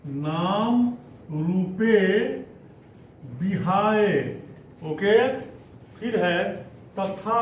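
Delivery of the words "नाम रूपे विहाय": slow syllable drill. Shown as a demonstration. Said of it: "teacher repeats slowly".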